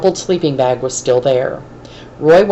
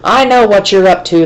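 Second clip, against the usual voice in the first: louder, higher snarl; snarled threat; 5 semitones higher, 5 dB louder than usual. A narrator's reading. Bald man accusing Roy at the fence, snarling. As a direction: growl it like a caught-out bully. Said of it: "the bald man snarled".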